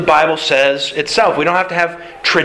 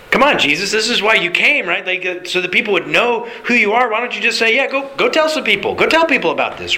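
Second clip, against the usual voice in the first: higher, rising plea to Jesus; exasperated pleading; 5 semitones higher than usual. Acted. A disciple pleads with Jesus to go public, exasperated and higher. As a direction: urge him to go tell everyone.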